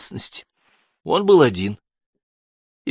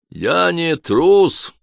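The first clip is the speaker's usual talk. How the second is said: slow, high croaking cry; croaked retort; 8 semitones higher, 4 dB louder, much slower than usual. Acted. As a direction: croak it out defiantly. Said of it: "каркнул Адемар".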